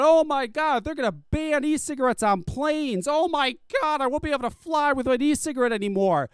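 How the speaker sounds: sarcastic whiny impression; mocking whine. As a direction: whine it like a spoiled complainer. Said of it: "bitching about".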